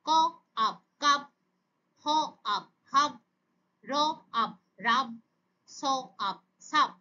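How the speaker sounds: onset, rime, whole word, as in র... আপ... রাব; phonics sound-out. Shown as a demonstration. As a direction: say হ, pause, আপ, pause, then blended হাব. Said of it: "একসাথে উচ্চারণ করে". (থেমে থেমে হ, আপ, তারপর একসাথে হাব)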